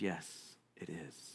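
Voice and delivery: a calm, understated answer; dry quiet reply. Acted.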